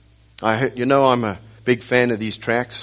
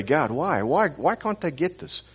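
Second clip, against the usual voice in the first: higher-pitched exasperated prayer, repeated whys; frustrated pleading; 5 semitones higher, 3 dB quieter than usual. Retold or imitated. Preacher retells praying to God after failing to get through, frustrated pleading. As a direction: plead upward in frustration, without raising the volume. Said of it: "frustrate me".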